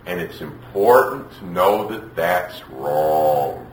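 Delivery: very slow, measured expert voice; drawn-out explanation. Retold or imitated. Child expert instructing a mother of a two-year-old, drawn-out explanation. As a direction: spell it out slowly, word by word. Expert's reply, acted slowly.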